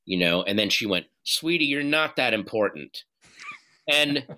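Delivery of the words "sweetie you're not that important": bitchy. Retold or imitated. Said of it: "she said it in kind of a bitchy way".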